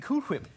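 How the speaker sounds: "Whip" pronounced hwip; "Cool Whip" with an overdone H in "Whip"; emphasis on the H. Pretend. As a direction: lean on the H at the start of "Whip". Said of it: "putting a lot of emphasis on the H".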